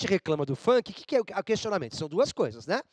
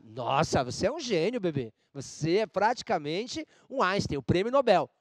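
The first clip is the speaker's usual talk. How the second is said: ironic praise. Retold or imitated. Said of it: "você tá sendo irônica".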